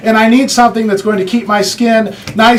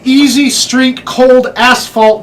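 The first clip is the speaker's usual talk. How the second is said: "Cold Asphalt" slowly and carefully enunciated; slow down and separate "Cold Asphalt" clearly; slow enunciation; 4 semitones higher, much slower than usual. Shown as a demonstration. Presenter naming a product so nobody mishears it, slowly enunciated. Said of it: "gotta say it real, real slowly".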